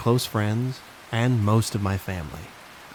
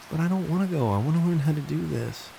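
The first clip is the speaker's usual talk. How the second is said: put-on higher, whiny little girl; little girl whining; 7 semitones higher than usual. Little cousin protesting to her cousin, whiny child voice. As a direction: whine like a small child.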